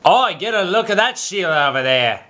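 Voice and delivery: put-on Australian accent. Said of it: "Do your best Australian accent".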